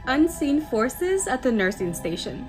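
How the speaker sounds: measured reading with rising phrase openings; story narration. A narrator's reading. Host reading a nurse's night shift tale, story narration. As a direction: read the spooky story aloud to listeners. Reads next submitted story.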